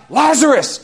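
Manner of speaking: high, loud command; imitated shout to summon someone; Jesus. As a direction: cry it out with authority. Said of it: "Jesus cried out".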